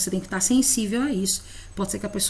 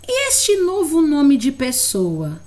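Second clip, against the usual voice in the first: pergunta de professora; 6 semitones higher, 5 dB louder, slower than usual. Shown as a demonstration. Professora demonstra pergunta ao aluno.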